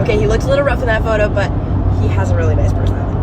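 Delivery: fast, half-hearted excuse-making; unimpressed girlfriend. Retold or imitated. A woman making excuses for her boyfriend's looks, fast and half-hearted. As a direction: rush through it like you're apologizing for him. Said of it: "not like".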